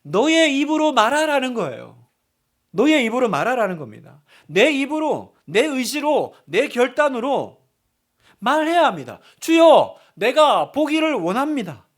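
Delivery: loud, high, emphatic preaching; preaching at full force. Acted. Preacher urging the congregation to declare it aloud, forcefully. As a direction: drive each phrase home at full voice.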